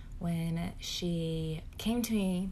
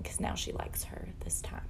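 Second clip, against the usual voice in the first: whisper; 6 dB quieter than usual. Retold or imitated. Mom sharing her daughter's sister past-life claim, hushed whisper. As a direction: drop to an unvoiced whisper. Creepy detail dropped to whisper.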